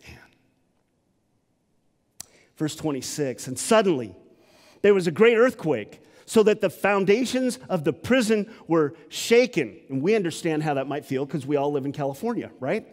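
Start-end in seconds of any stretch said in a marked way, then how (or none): 3.5-9.8 dramatic reading. Acted. Preacher reading earthquake verse dramatically.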